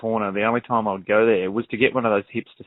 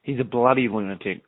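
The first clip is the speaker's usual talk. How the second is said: Aussie demo of a stock phrase; Australian accent. Shown as a demonstration. Host models bloody lunatic for guest, Australian accent. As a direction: show off the Australian twang. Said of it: "with an Australian accent".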